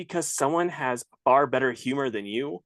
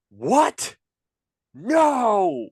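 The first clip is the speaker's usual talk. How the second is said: higher, louder mock-outraged yell; all-caps shout; 11 semitones higher, 6 dB louder than usual. Reading out an outraged online reply to a joke, mock shout. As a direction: yell it like a message typed in all capitals. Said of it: "In all capital letters".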